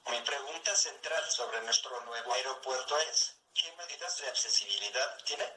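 text-to-speech voice, even and mechanical; synthesized voice. Real, not acted. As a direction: speak like a computer speech synthesizer. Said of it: "esta es una voz sintetizada".

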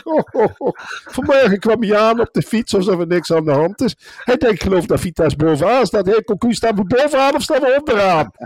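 high-pitched, scornful tirade; mocking rant. Real, not acted. Pundit on air mocking the coach, high-pitched scornful rant. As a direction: pour pure scorn on the coach.

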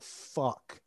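imitating a quiet, voiceless curse; mock defeated whisper; dismayed reluctance. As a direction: curse under your breath, dreading it. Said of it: "I knew that he didn't want".

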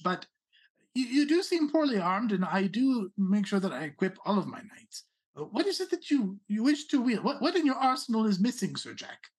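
a hint of a haughty rabbit noble; Rabbit Prince voice. Prince offers weapons.

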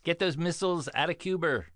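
mock presidential Boston accent; John Kennedy. President confronting Khrushchev over missiles in Cuba, mock Boston-accent impression. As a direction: do a broad political impression with Boston vowels. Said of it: "That's my John Kennedy".

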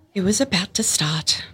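hushed narrator whisper. A narrator's reading. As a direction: whisper it with suspense. Tense exam moment, narrator whispers.

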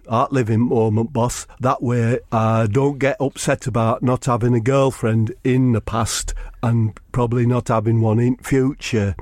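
a lightly voiced earnest loner. The speaker's low voice again.

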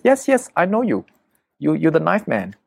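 high-pitched imitation of an eager girl; local girl. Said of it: "a local girl".

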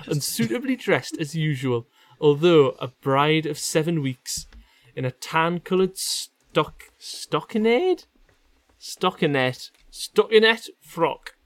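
measured Geordie story reading; reading aloud. Acted. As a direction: read the passage out with care. Continues reading the passage.

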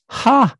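a high bark of laughter; sharp laugh. Real, not acted. Host laughing at forgetting the button. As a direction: burst out at his own mistake.

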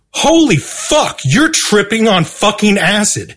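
high, slow, stretched-out holy fuck; blurting it out in alarm; panicked outburst. Retold or imitated. Retelling himself freaking out, slow high panic.

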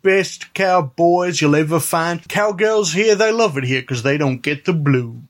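a lightly put-on old-West saloonkeeper; saloon owner cowboy. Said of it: "the voice Youth is doing".

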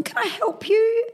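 put-on high, slow sing-song shop girl; sweet overly polite salesgirl; chirpy shop assistant.

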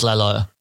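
YELLOW said as LELLO, with an L first; toddler's LELLO for yellow; imitating toddler mispronunciation. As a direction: swap the first sound to L in LELLO. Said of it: "every toddler has a speech impediment".

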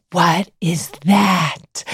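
put-on slow, small, wondering child's voice; lightly voiced little boy asking, slowly; curious little boy. Son asks mom about red lipstick, slow childlike wonder.

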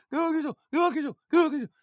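high, silly repeated mock yell; loud voice. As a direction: imitate him chanting it, high-pitched. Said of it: "saying it in this loud voice".

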